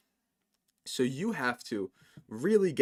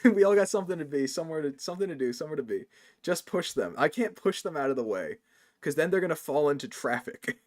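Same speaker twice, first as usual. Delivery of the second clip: put-on New York Italian accent. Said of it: "Cora hates when I do that accent".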